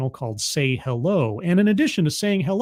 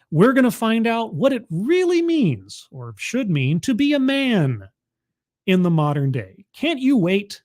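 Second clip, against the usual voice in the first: mock enthusiasm; 4 semitones higher than usual. Mock excitement about masculinity talk.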